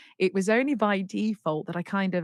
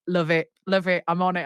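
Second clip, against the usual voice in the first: quick enthusiastic yes, a bit louder; eager approval; 6 dB louder than usual. Retold or imitated. Musician replying to her demo, eager approval. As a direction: imitate an instant, keen go-ahead.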